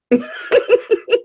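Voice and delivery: light high laughing burst; real giggle. Real, not acted. Laughing at husband comment.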